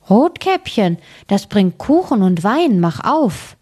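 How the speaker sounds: put-on wolf lightly posing as a little girl; lightly feigned girl's voice. Wolf at grandmother's door pretends to be Rotkäppchen, lightly feigned girl's voice. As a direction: pitch it up a touch, sweetly pretending.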